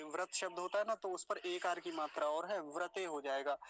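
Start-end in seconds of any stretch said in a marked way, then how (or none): 2.6-3.0 व्रते with व्र as a cluster, ʋɾə; correct pronunciation. Shown as a demonstration. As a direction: say व्रते, not वृते. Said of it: "वृते मत बोलिएगा". (व्रते, र मिला हुआ)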